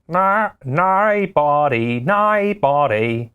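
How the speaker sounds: hammed-up Australian accent. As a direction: tease it like an Aussie fan. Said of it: "Australian fans of a singer be like".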